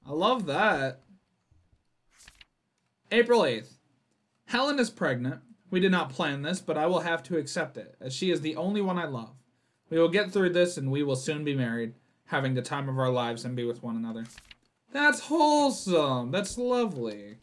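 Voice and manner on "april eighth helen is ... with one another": measured narrator read of the note; a mild spooky narration voice; reading game text. Acted. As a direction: read it like an ominous case report. Reads character's diary note.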